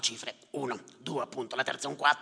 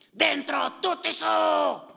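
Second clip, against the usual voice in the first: much higher, loud, slow drawn-out call; urgent order; 14 semitones higher, 6 dB louder, much slower than usual. Acted. Yusuf urging passengers aboard at night, shouting. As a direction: herd them into the boat.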